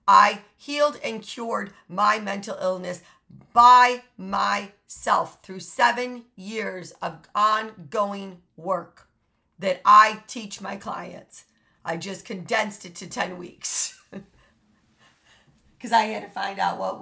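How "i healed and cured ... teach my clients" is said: slow emphatic. Real, not acted. Proud emphatic claim.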